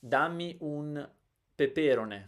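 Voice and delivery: peperone with the second "pe" stressed, "rone" weak; wrong second-syllable stress. Shown as a demonstration. Teacher running through the wrong versions, second-syllable stress. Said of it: "First, second, fourth, they're all wrong".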